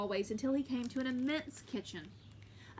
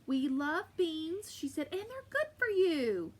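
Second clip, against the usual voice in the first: bossy giantess; 5 semitones higher, 3 dB louder, slower than usual. Acted. Giantess scolds husband.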